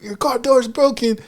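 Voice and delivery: high, mock chorus of concern; high-pitched group reply; group of dudes. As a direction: echo it like a gang of guys in a skit. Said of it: "like, eight dudes".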